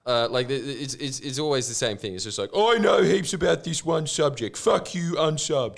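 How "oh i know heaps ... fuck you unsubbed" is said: higher, louder snooty commenter voice; mock know-it-all. Mocking a smug commenter, higher and louder. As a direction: sneer it like a smug expert.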